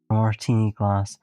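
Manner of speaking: lightly voiced comforter, a little low; devoted, teasing character. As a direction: reassure with understated, deadpan devotion.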